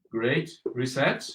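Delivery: soft, slow, secretive "Great Reset"; mock conspiratorial whisper. Teacher jokes to his class about being followed, hushed and secretive. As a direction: hush it like a secret.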